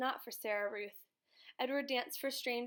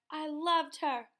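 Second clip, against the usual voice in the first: higher, louder, slow insistence; father repeating his claim, slower, higher, louder; pained repetition; 4 semitones higher, 6 dB louder, slower than usual. A narrator's reading. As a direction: lean harder on it the second time.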